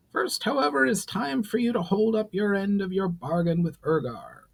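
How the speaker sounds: a proud goblin lord laying down terms; goblin chief Brawl. Acted. Brawl decides.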